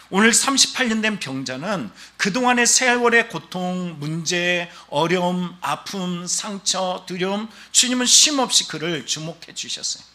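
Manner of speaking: fervent pulpit voice; impassioned preaching. Real, not acted. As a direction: preach each item of the list with mounting weight. Preaches with force.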